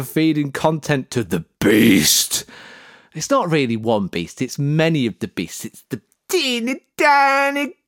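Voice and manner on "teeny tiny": very high squeaky little voice; teeny tiny creature. Acted.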